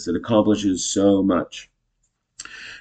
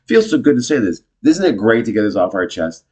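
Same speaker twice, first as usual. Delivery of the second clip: laughing, high relieved delight; hammed-up happy unburdening; acted gleeful relief; 3 semitones higher, 4 dB louder than usual. Acted couple relishing the venting.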